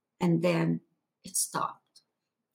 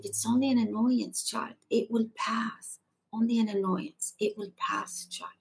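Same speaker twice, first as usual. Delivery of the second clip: gentle comforting; 4 semitones higher than usual. Retold or imitated. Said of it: "his gentle, comforting words".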